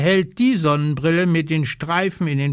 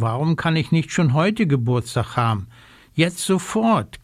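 whining. Acted. Impatient raven demanding his birthday now, mild whine. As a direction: drag out the demand like a pouting child. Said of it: "quengelt Socke".

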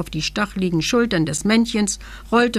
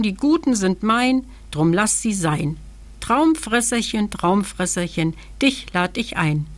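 measured storybook incantation, lilting up and down; rhythmic spell; 3 semitones higher than usual. A narrator's reading. Verse inviting the dream eater, chanted rhythmically. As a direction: recite it as a summoning rhyme. Reads out the magic rhyme.

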